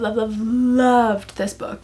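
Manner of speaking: each loved stretched slow and fond; drawn-out gushing. Real, not acted. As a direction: lean into every loved, slowly. Gushing over a favourite book.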